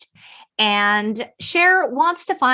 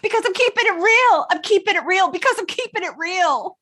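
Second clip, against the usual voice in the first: imitating Murray; 9 semitones higher than usual. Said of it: "quoting Murray's line".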